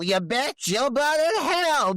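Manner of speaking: high, slow mock scream at the wife; shrill retold yell, slowed down; retold screaming curse. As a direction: drag out a shrieked curse, half acted. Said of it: "just screaming it over and over".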